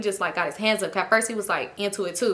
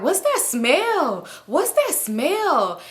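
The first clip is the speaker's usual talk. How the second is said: mock sniffing; 6 semitones higher, much slower than usual. Friend mocking smell, singsong.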